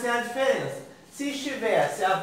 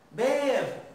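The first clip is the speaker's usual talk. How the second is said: higher, lengthened BE in "Bebo", end falling away; vogal tônica destacada; 4 semitones higher than usual. Shown as a demonstration. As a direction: stretch the first vowel of "Bebo", pitched up. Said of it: "Qual é a vogal tônica?". ("Bebo" com a primeira vogal alongada)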